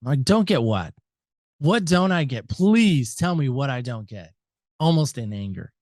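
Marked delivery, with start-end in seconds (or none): 0.2-4.3 exasperated pleading, slowing on the last line. Retold or imitated. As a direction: beg him to just say it, fed up. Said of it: "Now I'm exasperated".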